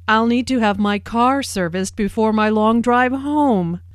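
light humorous stress on "home"; emphasis on home. Acted. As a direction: lean on "home" with a joking lift. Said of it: "Notice the emphasis and intonation on home".

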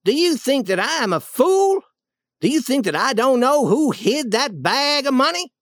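high-pitched, indignant questions; acted offended anger; angry. A narrator's reading. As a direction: throw the questions at him crossly. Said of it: "The Duke was angry now".

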